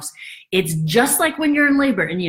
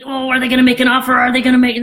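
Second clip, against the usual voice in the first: quick, louder, eager questions; anxious hope; 3 semitones higher, 5 dB louder, faster than usual. Retold or imitated. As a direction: hurry the words out like a hopeful seller.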